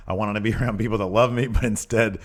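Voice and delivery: lightly faked Arnold-style Austrian accent; half-hearted Austrian accent for a foreign wrestler. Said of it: "it's Austrian. Arnold".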